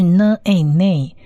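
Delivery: "呢，a，nay" as n, long ay, then joined; syllable blending. Shown as a demonstration. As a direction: sound out "呢，a，nay" piece by piece. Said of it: "是长母音a". (分步拼读“呢，a，nay”，先辅音后长母音再合读)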